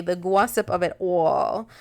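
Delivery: put-on playful New York accent on "gossip" and "all"; Wendy Williams. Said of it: "when I do that little accent".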